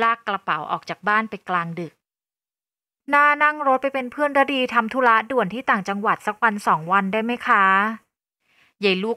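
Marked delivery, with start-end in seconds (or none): 3.1-7.6 wheedling, wide-eyed request; pleading for sympathy. Acted. Rich girl asking Nina along on a trip, pleading. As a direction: coax her into coming along. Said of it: "พยายามเรียกร้องความเห็นใจ".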